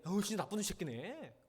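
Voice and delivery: lightly acted indignation on a friend's behalf; supportive agreement. Friend takes the complainer's side, supportive mock indignation. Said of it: "이렇게 해줘야 되는데".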